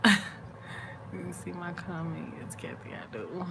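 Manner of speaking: slow whisper while scanning comments; hushed reading-comments aside. Real, not acted. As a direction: mutter to yourself as you read.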